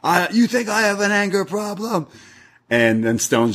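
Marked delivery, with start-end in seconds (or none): 0.0-2.1 high-pitched mock outrage; strained, high comic protest at normal volume; mock angry. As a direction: imitate an indignant hothead. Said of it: "physically lifting someone against the wall, like".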